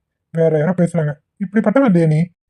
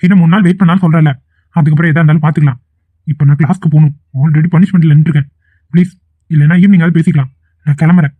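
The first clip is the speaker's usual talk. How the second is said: dismissive brush-off; 4 dB louder than usual. Acted. Boyfriend dismissive and loud.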